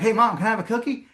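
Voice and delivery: put-on high, quick kid asking mom; lightly voiced eager six-year-old; pleading little boy. Voicing himself as six-year-old.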